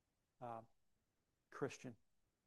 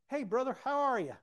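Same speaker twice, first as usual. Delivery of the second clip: booming high, over-cheery phone greeting; hammed-up enthusiasm, loud and high; Earl; 11 semitones higher, 10 dB louder than usual. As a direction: imitate a wide-awake hearty friend. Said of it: "it sounds like he's been up for twenty hours".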